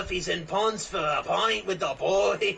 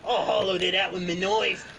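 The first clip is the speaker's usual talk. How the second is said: mock Australian accent. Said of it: "That's just Australian way".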